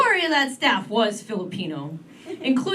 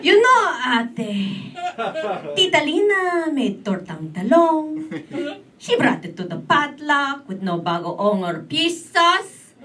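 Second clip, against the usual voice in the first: slow, knowing, a little higher; gossipy interviewer; 4 semitones higher, slower than usual. Retold or imitated. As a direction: drop a warning like juicy gossip. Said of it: "He's like".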